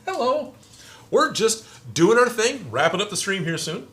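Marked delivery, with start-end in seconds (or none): 0.0-0.5 high singsong hello; high sing-song hello. Real, not acted. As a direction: chirp a bright hello. Sing-song greeting to viewer.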